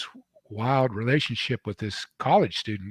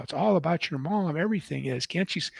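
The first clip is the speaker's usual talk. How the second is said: tearful insistence; 6 semitones higher than usual. Retold or imitated. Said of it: "she burst into tears".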